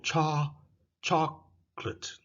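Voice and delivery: "chocolate" said slowly as CHOC-lit, middle O dropped; slow "chocolate" in two syllables, no O; chocolate without the O. Shown as a demonstration. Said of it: "The O is, disappears".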